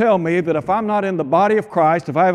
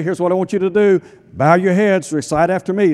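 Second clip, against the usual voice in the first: mock altar call; 3 dB louder than usual. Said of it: "Is that what Peter said?".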